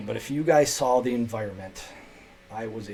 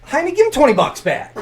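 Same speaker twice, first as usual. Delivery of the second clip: loud, high order; commanding teacher; 13 semitones higher, 9 dB louder than usual. Retold or imitated. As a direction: tell him firmly to pay it back. Ordering refund.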